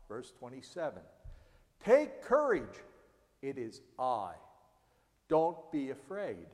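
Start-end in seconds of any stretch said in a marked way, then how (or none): 1.8-6.5 reassuring. Acted. Jesus reassuring frightened disciples.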